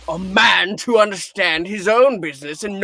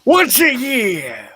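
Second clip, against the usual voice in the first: higher, louder outburst; indignant scoff; 6 semitones higher, 5 dB louder than usual. Acted. Scrooge scoffing at the clerk's excuse, indignant. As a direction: throw the words back in scorn.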